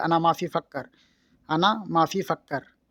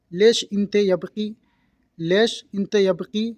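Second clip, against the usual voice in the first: slow teaching demo; 2 semitones higher, slower than usual. Shown as a demonstration. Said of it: "यानी कि रो रही हो।".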